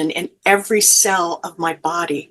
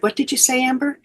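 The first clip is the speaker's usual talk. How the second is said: higher-pitched, retold gentle question; 6 semitones higher, faster than usual. Mother bends down to ask her daughter, gently questioning. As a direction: ask it lightly, leaning in to a child. Mother bending to sick child.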